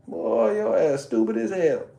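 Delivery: slow, high, scornful mother; mama calling her son stupid. Retold or imitated. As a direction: drag it out like a disappointed mom. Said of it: "my mama might tell me".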